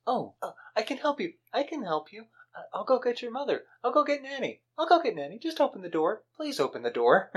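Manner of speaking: high, frightened begging; panicked pleading. Retold or imitated. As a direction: plead desperately to be let out. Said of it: "And Amanda says".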